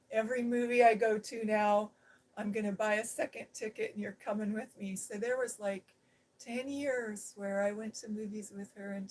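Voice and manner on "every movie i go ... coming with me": louder, rushing the friend's delighted promise; excited quote. Retold or imitated. Friend insists the speaker come to every movie, excited and louder. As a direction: burst out with it, then speed up.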